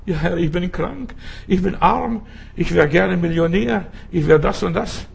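lightly acted litany of grievances; mock complaining. Preacher voicing discontented Christians praying, mock complaining.

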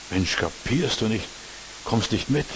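slow, understated mock impatience; acted exasperation, drawn out slowly; sarcastic impatience. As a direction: imitate someone losing patience, slowly and without shouting. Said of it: "dann werden wir sarkastisch, ärgerlich, ungeduldig".

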